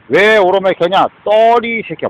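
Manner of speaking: loud scornful jab; scolding the room in anger; angry shout. Real, not acted. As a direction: snap the insult out loud. Angry rant, insulting listeners.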